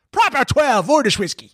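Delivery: high Dublin voice saying "Proper twelve Irish whiskey"; Dublin estate tagline. Retold or imitated. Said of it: "That's what it should be".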